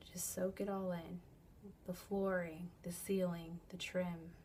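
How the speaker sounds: easy, measured meditation voice with long pauses; unhurried relaxation-coach delivery, leaving space between phrases; guided visualization. Acted. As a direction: gently guide a listener through an imagined scene.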